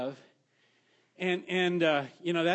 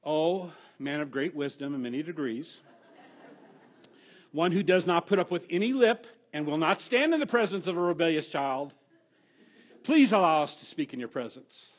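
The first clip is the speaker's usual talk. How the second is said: lightly hammed-up pompous title; mock grand address; 3 dB louder than usual. Father teaching his kids a mock-grand address, hammed up. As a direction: play it as mock-lofty flattery. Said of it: "address me this way".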